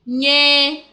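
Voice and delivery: NYE held long and loud; drawn-out demonstration. Shown as a demonstration. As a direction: stretch out "Nye" clearly for a learner. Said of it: "You hear that?".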